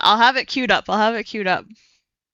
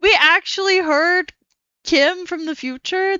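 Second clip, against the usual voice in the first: high, loud disbelieving yelp; shocked; 8 semitones higher, 4 dB louder, slower than usual. Real, not acted. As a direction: blurt it out in shock. Shocked by Kim from the future.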